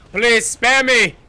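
loud, high, drawn-out begging; mock pleading. Player begging an enemy to spare him, mock plea. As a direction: beg for mercy, hammed up.

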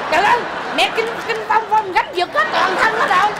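loud, high-pitched comic panic; high, loud excited outburst; mock alarm. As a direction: cry out in exaggerated alarm. Alarmed at partner's convulsions.

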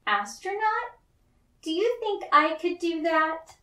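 put-on high, wide-eyed child voice asking in wonder; breathless little girl amazed at the idea; surprised child. Little May asks her mother, high and amazed.

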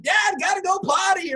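put-on high, loud kid's plea; mock whiny little boy. Son waking dad at five, mock whiny kid. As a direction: whine it like a small boy at dawn. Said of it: "my boy came in".

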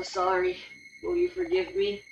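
very high-pitched apology; put-on high, pleading voice; pleading game character. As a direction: beg forgiveness in a high little voice.

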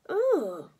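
high, loud groan of disgust; disgusted boy. Acted. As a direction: groan like a revolted child. George disgusted by caterpillars.

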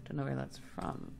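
put-on posh past-life accent. Shown as a demonstration. Streamer shows an accent of unknown origin, posh past-life accent. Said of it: "I can do this accent".

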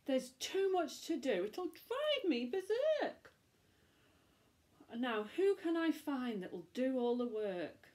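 a lightly voiced fretful witch. Witch fretting over party chores, lightly voiced. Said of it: "witch voice in story".

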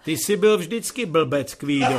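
loud booming rebuke; thundering father. Acted. Father thundering at his son, loud. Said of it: "zahřměl otec".

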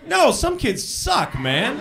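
normal talking voice

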